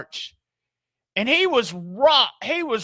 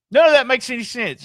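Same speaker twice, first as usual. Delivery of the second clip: fast, louder exasperated burst; exasperated rant; 3 semitones higher, 6 dB louder, much faster than usual. Real, not acted. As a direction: blurt out the disbelief. Exasperated rant about rating.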